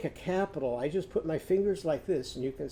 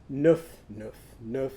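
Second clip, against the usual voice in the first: puppy bark; 3 semitones lower than usual. Shown as a demonstration.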